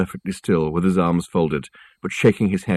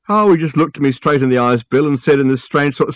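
eager chatty porter; 6 semitones higher, 4 dB louder than usual. A narrator's reading. Porter Fred resumes his tale.

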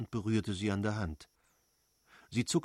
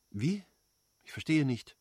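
disdainful question, pitched up; contemptuous; 4 semitones higher than usual. A narrator's reading. Wife answers her husband that she doesn't understand, contemptuous. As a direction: toss it back with scorn. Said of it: "sagte Anna verächtlich".

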